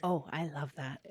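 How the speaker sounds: soft whisper joining in; breathy ASMR reply. Acted. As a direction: answer in a hush. Reacts to ASMR offer.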